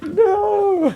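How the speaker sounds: laughing. Real, not acted. Laughing at glitch.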